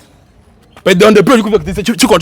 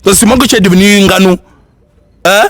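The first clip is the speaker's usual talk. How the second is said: heated, raised-pitch reproach; indignant challenge; 4 dB louder than usual. Acted. Man reproaching husband for using force, indignant.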